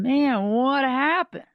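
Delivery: mock-puzzled, drawn-out question; baffled friend. Friend reacts to bad pictures.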